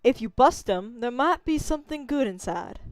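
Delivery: put-on southern male character; southern accent. Shown as a demonstration. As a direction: voice the game line with a southern twang. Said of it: "That's too southern".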